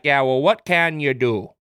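slow mock-Canadian cop; bad Canadian accent. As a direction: imitate a Canadian with a drawn-out shrug. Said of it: "a bad Canadian accent".

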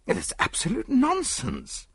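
a touch of irritation; angry mutter. A narrator's reading. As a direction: mutter it with annoyance. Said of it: "muttered Willard angrily".

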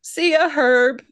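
slow, breezy see ya; lightly voiced cool kid farewell; casual goodbye. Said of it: "And Binky goes".

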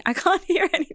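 high, laughing mock complaint; imitating complaining listeners. Podcaster quoting listeners' messages, high laughing mock complaint. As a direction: whine it as a listener, half laughing. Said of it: "you guys have messaged us saying".

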